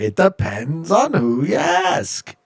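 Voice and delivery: slow, drawn-out mock Jewish accent; slow hammed-up Jewish accent, played for laughs. Shown as a demonstration. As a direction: lean into a playful Yiddish-style lilt. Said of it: "I need to say it with more of an accent".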